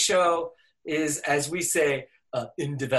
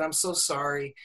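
retold apology; 6 dB quieter than usual. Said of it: "she paused a minute and she said".

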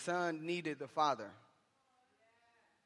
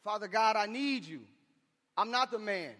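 raised-pitch prayer of surrender; higher, earnest admission; confessing plea to God; 4 semitones higher than usual. Acted. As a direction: cry out to God for help. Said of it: "saying that".

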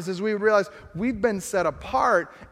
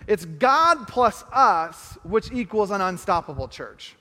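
very slow, measured, each word weighed; slow equation; slower than usual. Shown as a demonstration. Pastor slowly adds to the equation for the church. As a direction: spell it out slowly and plainly. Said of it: "if we add to the equation".

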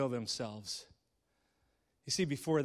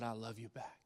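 faint reply; 5 semitones lower, 13 dB quieter than usual. Acted.

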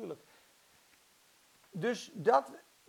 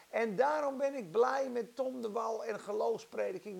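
ordinary talk

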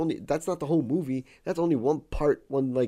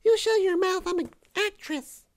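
very high, loud put-on woman's voice; indignant actress in a squeaky falsetto; girl voice; 7 dB louder than usual. Guy defending his girl voice to his cohost, in falsetto. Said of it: "That sounds like Pee Wee Herman doing a girl voice".

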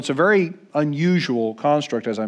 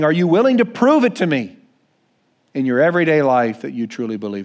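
stern demand; faster than usual. Pretend. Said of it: "Jesus saying".

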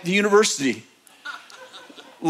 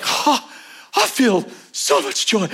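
imitated joyful laughter; 3 semitones higher, slower than usual. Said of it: "she starts rolling on the ground laughing".

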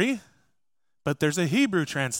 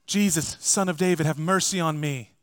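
first cry. Retold or imitated. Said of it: "cries out".

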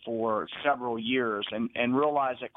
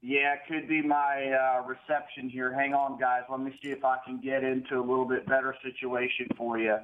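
echoing bathroom. Real, not acted. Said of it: "you sound very echoey".

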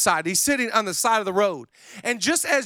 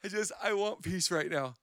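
prim, uneasy murmur; 2 semitones lower, 6 dB quieter, faster than usual. Retold or imitated. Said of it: "you're like".

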